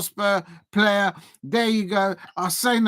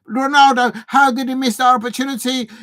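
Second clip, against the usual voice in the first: exasperated outburst; 5 semitones higher, 7 dB louder than usual. Real, not acted. Reacting to a missed chance.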